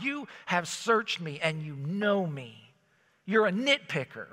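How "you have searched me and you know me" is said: complaining. Retold or imitated. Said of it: "this guy is calling God".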